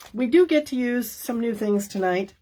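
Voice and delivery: interrupted by a hiccup; talking through hiccups. Real, not acted. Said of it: "I got the hiccups".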